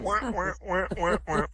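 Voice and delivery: short repeated wah-wah noises; imitated wah-wah. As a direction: make a quick string of mock wahs. Mimics noise after a joke.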